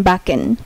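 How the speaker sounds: "বাকেন" with ck as k; German word backen. Shown as a demonstration. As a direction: read the example. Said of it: "যেমন বিএসিকেইএন".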